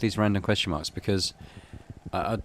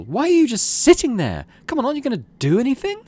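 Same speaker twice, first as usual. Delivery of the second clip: much higher and louder, fast at the end; indignant plea; 9 dB louder than usual. Acted. Mars turns on the silent council and urges them to act. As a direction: demand action in disbelief. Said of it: "She turns to the council".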